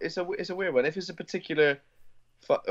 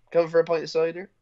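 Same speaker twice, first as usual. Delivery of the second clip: put-on Bristol accent; 6 semitones higher, 3 dB louder than usual. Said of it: "full Bristol".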